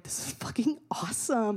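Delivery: awed whisper; whispered thrill. Retold or imitated. Traveller in a surreal riot, hushed whisper. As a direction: breathe it out in hushed disbelief. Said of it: "you're like".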